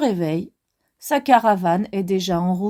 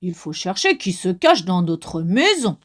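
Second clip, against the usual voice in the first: big bear voice; 5 semitones lower than usual. Acted. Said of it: "dit de sa grosse voix".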